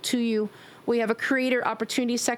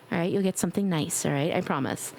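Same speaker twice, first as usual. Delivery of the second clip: mommy voice; 4 semitones lower than usual. Pretend. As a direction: reassure them like a caring mom. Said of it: "I'll use the little mommy voice on you".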